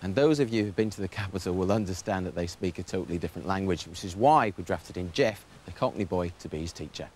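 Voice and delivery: tongue-in-cheek narrator reading the link; TV voiceover. Acted.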